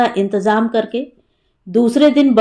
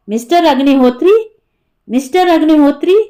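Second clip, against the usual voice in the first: imitated call, raised in pitch with rising ends; 4 semitones higher than usual. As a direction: call a name from behind, lightly raised. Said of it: "पीछे से किसी ने आवाज दी".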